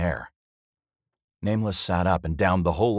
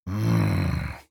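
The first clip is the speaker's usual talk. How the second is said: grunt; 3 semitones higher, 3 dB louder than usual. A narrator's reading. Dwarf tasting froth from the tankard, grunting. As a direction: grunt into the drink. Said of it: "he grunted".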